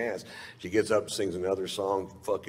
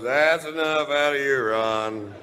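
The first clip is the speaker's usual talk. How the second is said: retold scolding; 7 semitones higher, 4 dB louder, slower than usual. Doc retold cutting him off.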